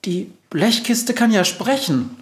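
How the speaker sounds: high, squeaky mouse alarm; frightened little mouse voice; startled squeal. A narrator's reading. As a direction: squeak it in shock. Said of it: "quietscht die Maus erschrocken".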